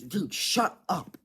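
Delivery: high, slow imitated shout; a classmate snapping, imitated slow and high; mock yell. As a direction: retell her yelling shut up. Girl yelling at friend.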